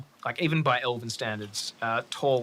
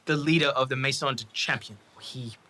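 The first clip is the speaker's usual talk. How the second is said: nervous. Acted. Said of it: "George looks very nervous".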